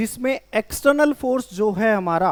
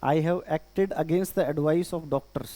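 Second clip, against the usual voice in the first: very slow and a little softer, word by word; slow dictation; 5 semitones lower, 5 dB quieter, much slower than usual. Shown as a demonstration. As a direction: read it out slowly for the class to copy. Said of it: "लिखो।". (धीरे-धीरे बोलकर लिखवाना)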